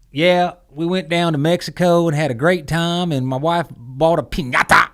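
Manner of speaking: mock a gringo overdoing the Spanish accent; show-off gringo Spanish accent. Man mocking gringos who show off their Spanish, exaggerated Spanish accent. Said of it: "that fucking guy who's like".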